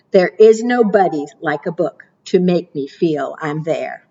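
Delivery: lilting storybook read-aloud; sing-song picture book reading; reading to children. Acted. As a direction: read the rhymes like storytime for little ones. Reads rhyming picture book aloud.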